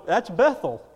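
ordinary talk, nothing marked

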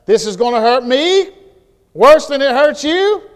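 loud, high mock parent; parent's old line. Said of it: "the old saying that parents used to say".

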